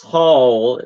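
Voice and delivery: 'hall' drawn out in the speaker's own accent; accented pronunciation of hall. Real, not acted. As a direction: stretch 'hall' slowly, meaning a hole. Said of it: "excuse me the way I say this".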